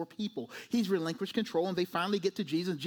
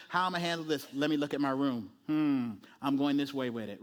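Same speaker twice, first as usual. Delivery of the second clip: pondering Jesus; 5 semitones lower than usual. Acted. Voices Jesus sizing up the room.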